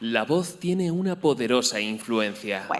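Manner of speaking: energetic deep voice. Speaker demonstrates a combination of vocal traits for credibility; energetic, deep, modulated voice. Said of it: "una intensidad enérgica, tono más bien grave con una entonación modulada, timbre abierto y además una velocidad tendente a rápida".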